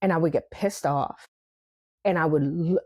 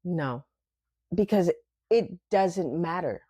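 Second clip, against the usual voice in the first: calm inner answer; 2 semitones lower than usual. Retold or imitated. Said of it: "sitting there going".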